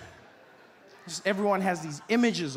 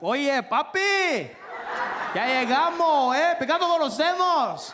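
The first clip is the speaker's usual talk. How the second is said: high, loud, drawn-out greeting; excited Spanish-speaking guy; 8 semitones higher, 6 dB louder, slower than usual. Retold or imitated. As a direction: imitate a guy hailing his buddy in Spanish. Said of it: "some guy came up to me".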